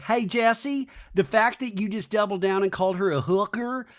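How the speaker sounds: mock indignant friend laying down the law; lightly voiced confrontation. Acts out Brittany confronting Jesse.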